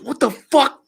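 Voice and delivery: high, shocked what the fuck; shocked outburst. Retold or imitated. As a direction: imitate his startled outburst. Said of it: "he goes".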